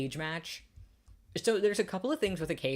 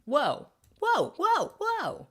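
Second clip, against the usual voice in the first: surprised whoa; 7 dB louder, much slower than usual. Real, not acted. Reacting to something in game.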